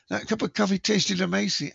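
put-on shaky stab at a New Zealand accent; attempted New Zealand accent. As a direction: have a go at a Kiwi accent and miss. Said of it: "I can't do a New Zealand accent".

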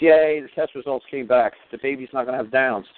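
drawn-out mocking cheer from the wife; mock cheery wife. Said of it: "she goes".

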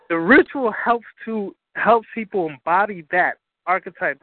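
slowed down for clarity; deliberately slow. Real, not acted. Teacher repeating a point in case listeners missed it, slow. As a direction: spell it out slowly for the listeners. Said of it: "repeat that again slowly".

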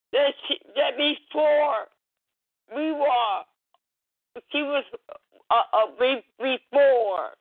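halting, choked-up prayer; tearful prayer. Real, not acted. Mother praying about her lost daughter, tearful and halting. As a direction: falter and restart, close to tears.

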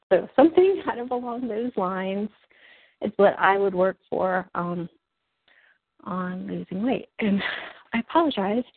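winded, catching breath between phrases; talking while short of breath. Real, not acted. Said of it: "I just realized how out of breath I am".

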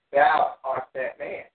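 slow, loud verse reading, leaning on THOU; scripture proclamation. Acted. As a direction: proclaim it slowly, THOU drawn out and strong. Reads Nathan's accusation from scripture.

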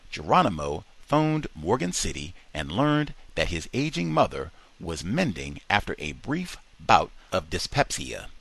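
ordinary delivery

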